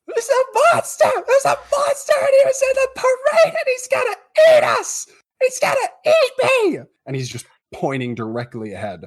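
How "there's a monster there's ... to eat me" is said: put-on hysterical, very high, loud, terrified child scream. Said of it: "screaming hysterically with tears running down his face".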